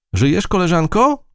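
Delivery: high, urgent call; mild shout. A narrator's reading. Mouse checks on a collapsed ant, mild high shout. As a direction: call out to rouse someone, voice lifted high. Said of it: "krzyknęła".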